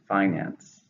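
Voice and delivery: "Finance" stressed on FI, falling; stress on first syllable. Shown as a demonstration. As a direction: model "Finance" as FI-nance. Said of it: "stress in the first".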